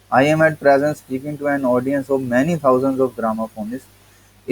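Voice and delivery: reading the essay slowly, word by word; slow text reading. Acted. Teacher reading the English essay to students, slow and deliberate. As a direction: read each word out to the class.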